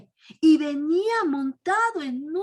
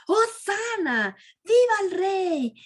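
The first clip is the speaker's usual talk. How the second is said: higher, drawn-out acclaim; crowd acclaiming; 4 semitones higher than usual. Retold or imitated. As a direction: cheer the king, stretching Hosana. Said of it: "Aclamando a gran voz". (la multitud aclama, alargando Hosana)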